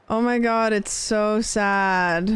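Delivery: drawn-out, very slow mock-sad echo. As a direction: stretch "so sad" way out, hamming it up. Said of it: "And I'm like".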